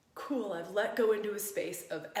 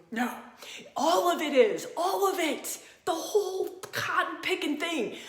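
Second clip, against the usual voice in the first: much higher and louder, laughing through it; gleeful, laughing exclamation; excited laughing burst; 9 semitones higher, 7 dB louder than usual. Real, not acted. Enthusiastic peak of the talk.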